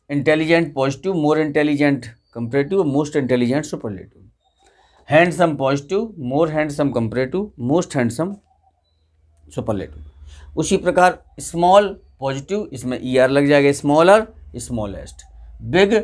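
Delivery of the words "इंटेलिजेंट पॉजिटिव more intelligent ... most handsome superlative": slow classroom recitation, fading out. Shown as a demonstration. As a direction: recite the degrees slowly for students to copy. Teacher reciting forms slowly.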